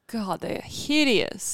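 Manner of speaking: high, drawn-out disgust. Real, not acted. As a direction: say it like the glasses are ghastly. Mocking her ugly glasses.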